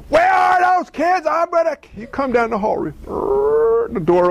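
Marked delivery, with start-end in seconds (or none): 0.1-1.8 imitated dad. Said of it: "He wasn't yelling".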